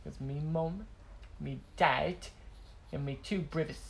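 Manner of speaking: lightly imitated British kid's accent; hint of a young Brit's accent. Quoting a kid on his family, light British accent. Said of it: "this British kid who was talking".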